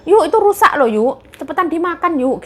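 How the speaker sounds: coaxing mother-in-law. Retold or imitated. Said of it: "aku ditawarin Kanjeng Nyonya".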